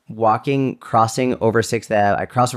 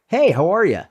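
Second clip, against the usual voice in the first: high, sweetly friendly hello; chirpy greeting; 9 semitones higher than usual. Retold or imitated. Greeting a huge stranger at night, high and chirpy. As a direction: lift it high and breezy through a smile.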